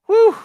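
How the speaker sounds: high, loud exhale of relief; real relieved blow after the rant; relieved whew. Real, not acted. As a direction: breathe the anger out. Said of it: "that feels good now".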